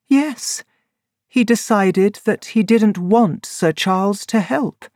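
high, bitter woman's voice; a betrayed woman confessing; high voice of a woman betrayed by her lover; Laura Lyons. A narrator's reading.

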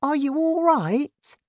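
high-pitched gentle question; kindly asking. A narrator's reading. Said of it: "George asked kindly".

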